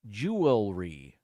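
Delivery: JEWELRY stretched out as JOO-ul-ree; slow JEWELRY down to hear each syllable; spelling pronunciation. Shown as a demonstration. Host comparing with the quick version, JEWELRY drawn out as JOO-ul-ree. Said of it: "as it's spelled".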